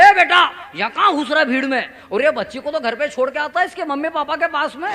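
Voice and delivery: put-on old man's shout. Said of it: "जोर से चिल्लाए".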